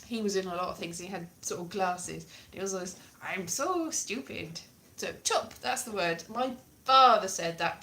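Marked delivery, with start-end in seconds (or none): 3.2-4.6 slow mock-Welsh simpleton; mock idiot. Comic mimicking television's Welsh idiots, slow and dim. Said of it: "like idiots".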